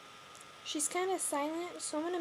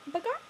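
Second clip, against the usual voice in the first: squawked "bagarp" high, like an upset hen; hen's "bagarp" alarm call, imitated; 6 semitones higher, 3 dB louder than usual. Shown as a demonstration. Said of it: "she makes this noise".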